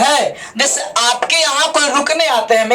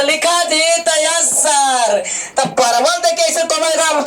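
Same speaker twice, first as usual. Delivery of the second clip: drawn-out dictation exchange. Acted. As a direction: mimic dictation with a long-held reply. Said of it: "फिर बोले". (खींचकर इमला और जवाब की नकल)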